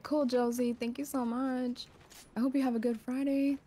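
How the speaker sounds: high, slowed, gushing thanks; sweet thank-you. Real, not acted. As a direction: gush your thanks to a fan. Streamer thanks viewer Josie.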